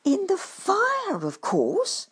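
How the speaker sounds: high, slow, obvious answer; matter-of-fact badger. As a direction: state it slowly as plain fact.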